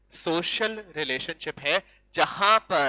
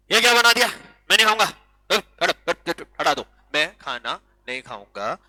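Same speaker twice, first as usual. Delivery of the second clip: bratty tantrum; 5 dB louder than usual. Retold or imitated. Child yelling at mom over dinner, loud bratty refusal. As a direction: shove the food away like a spoiled kid.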